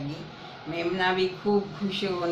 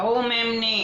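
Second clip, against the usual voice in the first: calling out; 5 semitones higher, 5 dB louder than usual. Acted. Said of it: "उसने कहा".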